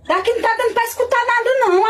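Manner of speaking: high, fast call from across the house; calling from far off. Acted. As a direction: sing it back from another room. Wife calls back, feigning deafness.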